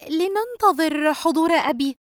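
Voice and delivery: slow, hesitant plea; worried. Acted. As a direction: suggest it with a touch of worry. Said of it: "رجاء بقلق". (بقلق)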